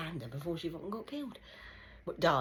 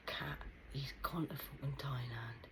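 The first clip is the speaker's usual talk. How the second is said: whisper; 5 dB quieter than usual. Retold or imitated. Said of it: "And he said".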